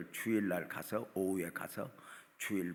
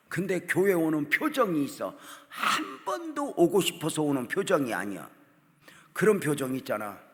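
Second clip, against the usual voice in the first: loud, raised preacher's voice; full-force preaching; 6 semitones higher, 10 dB louder than usual. Real, not acted. Preacher describing the daughter's grudging churchgoing, full-force preaching. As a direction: drive it home loudly from the pulpit.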